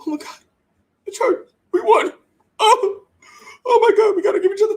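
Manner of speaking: high, loud, laughing mock joy over a small win; mock giddy celebration. Host mocking Cowboys players hugging after a win, high giddy voice. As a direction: ham up the players' overexcited celebrating.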